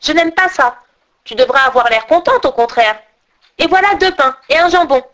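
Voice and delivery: légèrement voix d'enfant effrontée; petite brigande capricieuse. Acted. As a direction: une gamine autoritaire, à peine jouée. Fille renvoie Gerda. (fille des brigands exigeant Gerda, ton capricieux léger)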